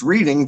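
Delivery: "reading" with a long ee, like the verb; Reading mispronounced as "reeding". Retold or imitated. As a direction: say "reading" as REE-ding. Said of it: "and he called it reading".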